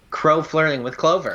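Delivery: sing-song dig at a friend; teasing. Real, not acted. Cohost teasing her about her favourite ship, laughing. Teasing reveal of favorite part.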